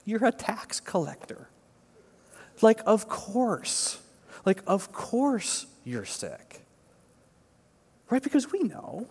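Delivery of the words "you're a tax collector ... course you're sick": a hint of Jesus smiling, slow and kind on "of course"; lightly voiced Jesus, gently amused; smiling, gentle Jesus. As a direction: tease him kindly with a smile in the voice. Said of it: "he would have smiled, and he would have been like".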